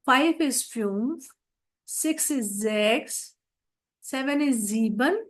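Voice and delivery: slow, deliberate number reading; teacher's slow drill; slow revision drill. Shown as a demonstration. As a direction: read each German number slowly for students. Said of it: "अभी हम इसे revise करेंगे".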